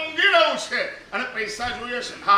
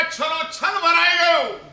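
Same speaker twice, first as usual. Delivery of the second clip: excited cry; 5 semitones higher, 5 dB louder than usual. Acted. Acted exclaim, bowl full.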